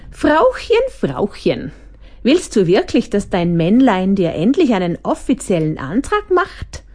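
teasing sing-song calling of Frauchen; mocking. The Hyperkritiker mocks Frauchen, lightly voiced sneer. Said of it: "spottete der Hyperkritiker".

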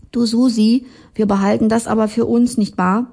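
hurried, hushed plea to keep the secret; Jurte's voice. Acted.

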